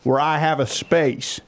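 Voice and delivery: put-on high, childlike voice asking daddy questions; little daughter voice. Father imitating his nine-year-old daughter asking daddy, high childish voice. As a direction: play a curious nine-year-old girl tugging at daddy. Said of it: "questions I want to have to answer my nine-year-old daughter".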